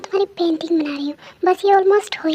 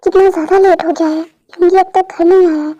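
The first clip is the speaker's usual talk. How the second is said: loud worried fretting; 7 dB louder than usual. Acted. Worried waiting for late son.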